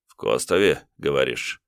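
ниже и тише, с прищуром; подозрительно переспросить; недоверчивый тиун. Acted. (тиун недоверчиво переспрашивает)

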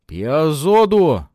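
slow, high, loud tribal threat; furious cry. A narrator's reading. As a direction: roar the threat. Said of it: "восклицает Уилло".

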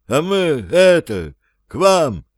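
high, shy newcomer voice; timid zombie. A narrator's reading. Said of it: "робко сказал".

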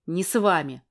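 usual speaking voice

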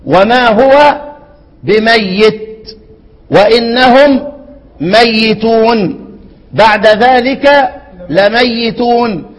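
very slow, drawn-out recitation; stretched tajweed recitation; slow Quran recitation. Shown as a demonstration. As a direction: recite each word long and slow. Teacher recites the Quran verse.

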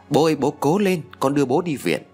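retold anxious plea; urgent pleading. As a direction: lightly imitate a son urging his father on. Son urging his stricken father.

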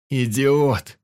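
furious yell at a careless companion; yelling at the friend who touched everything; angry shout. Acted. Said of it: "закричал я".

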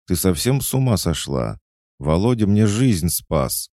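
outraged little sister scolding; indignant outcry. A narrator's reading. Little sister scolds Alisa for hitting her savior, indignant outcry.

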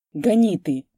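urgent order. A narrator's reading. Panicked order to drive.

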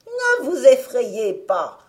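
loud, high, slow sugary witch. Acted. The witch luring the children, false sweet witch voice. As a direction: coax them like a scheming old witch.

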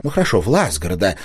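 usual speaking voice

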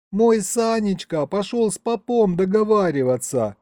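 put-on high, plaintive girl's lament; tearful young woman. A narrator's reading. Young mother explains her husband's trouble, acted tearful. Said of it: "снова всхлипнула девушка".

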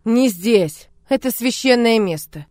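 loud, hard and short; curt order. Acted. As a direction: toss it off without looking at her. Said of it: "бросил".

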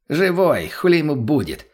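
high, smug reply with a grin in it; cocky high smirk. Acted. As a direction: brush the question off with a smirk. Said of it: "ухмыльнулся кореш".

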